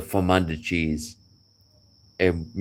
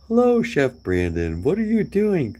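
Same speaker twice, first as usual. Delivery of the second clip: sarcastic; 11 semitones higher, 3 dB louder than usual. Retold or imitated. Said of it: "That's all very sarcastic".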